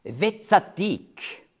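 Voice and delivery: "Wetzadik" spelled out slowly, syllable by syllable; Hebräisch langsam vorgesprochen; Hebrew word said slowly. Shown as a demonstration. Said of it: "das erste Wort heißt".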